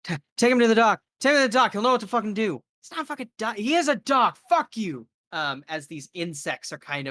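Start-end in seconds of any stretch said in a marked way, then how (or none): 0.1-2.6 high, loud, frantic plea to take him to the doctor; a panicked bystander screaming for the doctor; panicked woman. Acted. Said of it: "woman's like". 2.8-5.1 panicked argument. Acted. Bystanders argue in panic.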